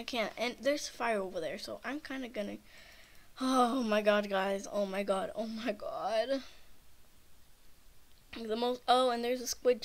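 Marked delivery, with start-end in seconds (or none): 3.4-6.4 startled exclaim. Real, not acted. Sudden scare in game.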